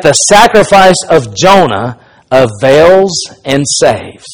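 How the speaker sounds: emphatic pulpit read-aloud; preacher reading a quotation. Acted. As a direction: declaim it in measured phrases, pausing between them. Reads a quotation aloud to congregation.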